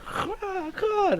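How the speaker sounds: very high, soft exasperated groan; a crow fed up at being chased; annoyed crow. Acted. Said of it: "And the crow's like".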